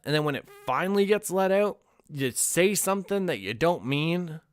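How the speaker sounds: ordinary talk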